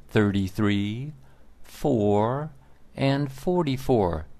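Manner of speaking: ordinary delivery, nothing marked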